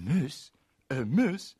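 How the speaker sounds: rising amazed cry; high, loud disbelieving question; wide-eyed disbelief, building up; astonished. Acted. Astonished repeated exclamation.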